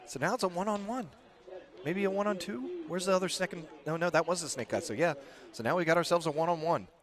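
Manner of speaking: hushed golf commentary; quiet, like a golf announcer. Real, not acted. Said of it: "That's why I went to my golf voice".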